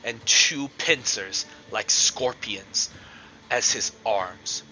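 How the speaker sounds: slow, deliberate monster reveal; game master's scene setting. Acted. Game master unveils an abomination to the players, suspenseful narration. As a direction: describe it slowly, phrase by phrase, with pauses.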